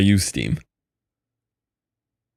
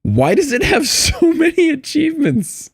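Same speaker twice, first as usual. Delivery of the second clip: surprised. Real, not acted. Surprised at achievement count.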